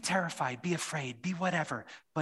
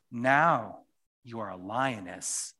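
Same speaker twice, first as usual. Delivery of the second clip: Aslan proud; slower than usual. Acted. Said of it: "said Aslan".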